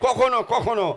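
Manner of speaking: rousing football commentary call; live play-by-play. Acted. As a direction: call the match like a stadium announcer.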